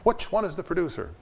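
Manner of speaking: retold stern demand; imitating a stern Dorothy. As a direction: hunt down the culprit. Dorothy repeats her demand.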